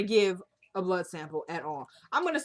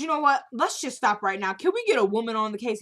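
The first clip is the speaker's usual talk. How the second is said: louder, raised indignant retort; indignant outburst; 2 semitones higher, 5 dB louder than usual. Retold or imitated. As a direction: snap back at the cop, fed up. Kelly angrily retold to cop.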